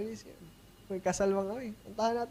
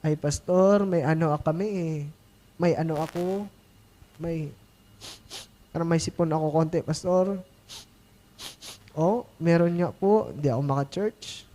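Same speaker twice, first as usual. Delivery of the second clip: mock churchgoer excuse; 4 semitones lower than usual. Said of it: "every reasons ng every Christians".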